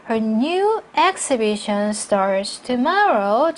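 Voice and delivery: slow reading, a break after "tomorrow"; deliberate words, stopping after "tomorrow"; phrased with pause. Shown as a demonstration. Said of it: "전치사구 앞에서 꼭 쉬셔야 되죠". ("tomorrow" 뒤에서 쉬며 천천히)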